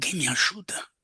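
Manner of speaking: very quiet, hushed, barely audible whisper. Retelling the first words of a man the speaker calls o, very quietly. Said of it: "bem baixinho".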